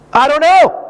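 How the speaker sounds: high, loud whine as the crying wife; exaggerated weepy wife voice; mock tearful wail. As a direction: wail it helplessly, hammed up. Acting out his tearful wife's answer.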